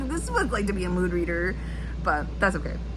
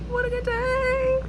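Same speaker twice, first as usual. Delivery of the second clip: singsong high sign-off; slower than usual. Real, not acted.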